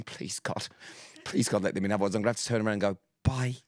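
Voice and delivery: fast, half-whispered pleading to God; mock panicked prayer. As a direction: rush it out under your breath, panicking. Imagined panicked inner prayer.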